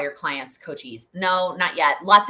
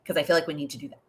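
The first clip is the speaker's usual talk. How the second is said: talking with hiccups; 3 semitones lower, 3 dB quieter, faster than usual. Real, not acted. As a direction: speak through little hiccups. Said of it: "I have the hiccups now".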